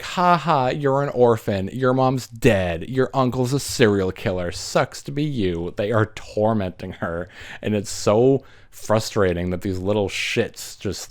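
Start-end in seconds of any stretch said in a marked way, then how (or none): 0.0-5.7 put-on sing-song jeer like a bratty kid; taunting kids. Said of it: "And they're like".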